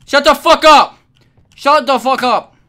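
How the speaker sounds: high, loud snap to shut him up; angry yell. Acted. Babysitter losing it at the crying baby, angry yell.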